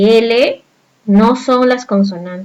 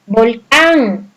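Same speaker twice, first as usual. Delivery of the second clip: Volcán with a long, strong final -cán; stress on last syllable. Shown as a demonstration. Teacher asking pupils about Volcán, final syllable stressed. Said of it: "Cuál es la mayor fuerza de voz".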